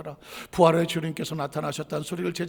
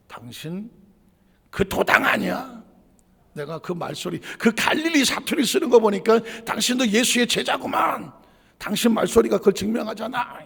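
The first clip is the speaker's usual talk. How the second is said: accusing call; 2 semitones higher, 6 dB louder than usual. Retold or imitated. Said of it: "외칩니다".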